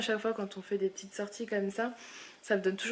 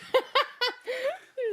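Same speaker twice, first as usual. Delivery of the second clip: high giggle. Real, not acted. Laughing at baby.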